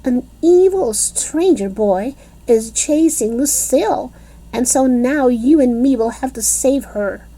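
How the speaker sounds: high, eager call to action; rally your friend to the rescue; eager rallying kid. A narrator's reading. Junie B urging Grace to go save Lucille, eager.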